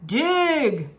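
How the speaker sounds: loud barked command; captain orders the pirates; shouted order. A narrator's reading. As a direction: bark it at them. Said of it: "shouted Captain Bones".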